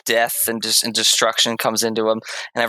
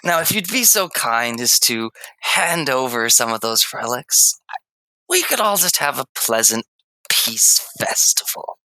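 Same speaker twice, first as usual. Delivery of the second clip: smug villain; 2 semitones higher than usual. Acted. Villain demands relics.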